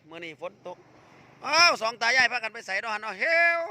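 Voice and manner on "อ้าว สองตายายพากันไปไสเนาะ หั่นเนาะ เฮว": loud, higher-pitched holler; calling out. Real, not acted. Host hailing an old couple heading out, calling out. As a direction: call across to people walking off.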